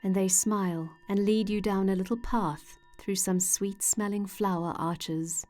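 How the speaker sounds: calm, measured meditation voice with long pauses; unhurried guided-imagery narration, phrase by phrase. Acted. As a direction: gently guide the listener into relaxation.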